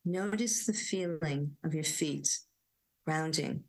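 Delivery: gentle guided meditation voice; guided grounding. Acted. Inviting listeners to sit back and ground, gentle meditation voice. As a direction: invite them to settle and ground.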